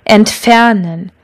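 Entfernen, slow, with the stress on FER; stress on second syllable. Shown as a demonstration. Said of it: "all work in the same way".

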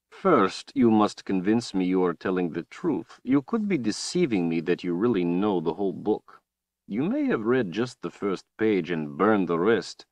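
a cold, gloating overlord; menacing villain. Acted. Villain Rahl speaks.

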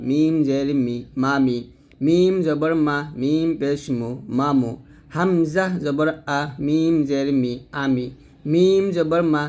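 measured singsong, long "মিম", falling to joined "মামি", "মামু"; spelling-out recitation. Shown as a demonstration. Teacher spelling mim words for learners, measured chant. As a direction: spell evenly, then drop onto "মালা". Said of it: "তো এরকম উচ্চারণ হবে".

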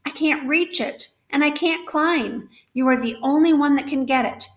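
desperate pleading. Acted. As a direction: plead with the rat as if time is running out. Wilbur's desperate pleading to the rat.

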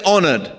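"Honored" said firmly for the crowd to echo; "Honored" as a clear cue word; call and response. Shown as a demonstration. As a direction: lead the church in saying "Honored". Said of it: "Everyone say".

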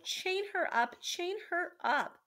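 high, frantic repeated command; high-pitched rat's yell; shouted. A narrator's reading. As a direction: shout the order, slowing on the repeat. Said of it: "shouted Roscoro".

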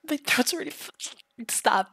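high, strained plea to stop; tickled protest. Acted. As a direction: squeal out a protest while tickled. Begging while being tickled.

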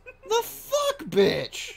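loud shocked yell. Real, not acted. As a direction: cry out in disbelief. Sudden angry gaming outburst.

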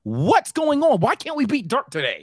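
mock bewildered complaint; exasperated fan. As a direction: replay a fan's disbelief, voice jumping up. Replaying his fan reaction.

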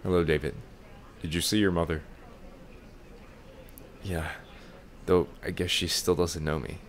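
low, monotone doctor voice; lightly voiced deadpan doctor; Doctor Bird Person voice. Doctor gently explaining the mother's condition. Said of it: "I sound like Bird Person".

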